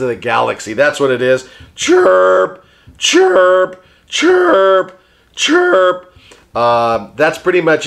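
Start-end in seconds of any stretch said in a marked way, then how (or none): 1.7-6.1 parakeet chatter. Pretend. Puppet bird chirps.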